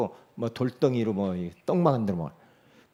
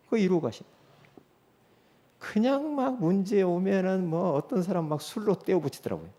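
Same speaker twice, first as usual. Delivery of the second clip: ordinary delivery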